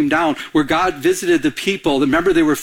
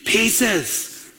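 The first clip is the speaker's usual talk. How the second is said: congregation response; 6 semitones higher than usual. Real, not acted. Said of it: "Can we say it out loud?".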